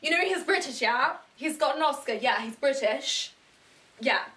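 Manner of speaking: loud, proud claiming of a compatriot; boastful Brits. Acted. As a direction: imitate Brits eagerly claiming a star. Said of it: "That's what Brits do. We just, like".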